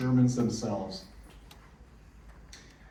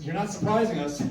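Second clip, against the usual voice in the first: retold call skyward, pitched high; mock yell; 7 semitones higher than usual. Terry calling up to the hidden voices, high mock yell. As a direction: call up to the sky, mock defiant. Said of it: "He yelled up into the sky".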